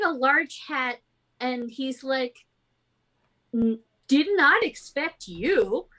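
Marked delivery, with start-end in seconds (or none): 3.5-5.9 put-on half-elf captain with a clumsy French accent; bad French accent. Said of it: "the worst French accent to ever exist".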